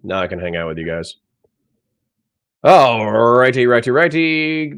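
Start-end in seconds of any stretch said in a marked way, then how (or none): 2.6-4.8 slow, drawn-out playful singsong. Real, not acted. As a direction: stretch it out like a little tune. Playful filler while setting up.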